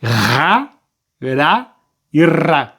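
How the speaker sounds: "Ra, ra e ra" drawn out slowly with a strong rolled R; teacher modelling "ra" very slowly for the class; slow demo of the R sound. Shown as a demonstration. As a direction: stretch each "ra" slowly so the strong R is heard. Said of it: "o som inicial vai ser um R maiúsculo".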